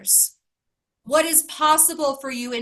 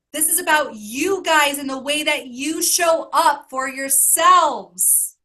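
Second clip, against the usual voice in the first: emotional, rising loud; 3 semitones higher, 6 dB louder than usual. Real, not acted. Coach telling the group, voice swelling louder with emotion. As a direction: swell up louder with real feeling. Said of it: "I'm just filled with so much gratitude".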